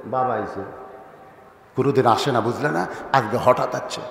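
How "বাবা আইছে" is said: hushed, softer and lower, close to her ear; secretive hushed warning; whispering in ear. Retold or imitated. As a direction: breathe it into the wife's ear. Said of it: "কানের কাছে ফিসফিস করে বলতেছে".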